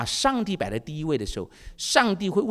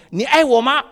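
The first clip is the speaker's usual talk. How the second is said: 1 wife pleading; 10 semitones higher, 9 dB louder than usual. Retold or imitated. Wife asks husband.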